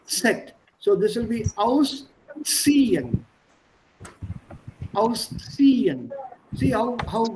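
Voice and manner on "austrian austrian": "Austrian" with a distinct ts sound; clear ts. Shown as a demonstration. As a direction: say the ts cleanly, slowly. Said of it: "distinctly it's different".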